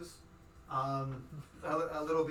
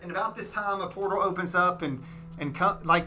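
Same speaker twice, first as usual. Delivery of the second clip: dramatic narration; 10 dB louder than usual. A narrator's reading.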